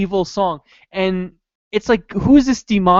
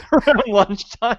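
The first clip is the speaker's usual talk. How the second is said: higher, slow mock voice; mock suspect; 6 semitones higher than usual. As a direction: echo him with dopey amusement. Mock repeating suspect's line.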